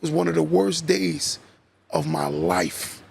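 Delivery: low, slow, crying husband; retold crying. Husband falls into wife's arms, a slow teary break. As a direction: voice sinking into tears as he breaks down. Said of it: "started crying and said".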